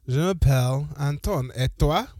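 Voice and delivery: hammed-up French accent. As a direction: play along with a mock French accent. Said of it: "had to do a French accent".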